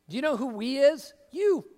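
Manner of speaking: rising to a punchy You; pointed callout. Real, not acted. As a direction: jab the word You at them. Preacher calls out the congregation.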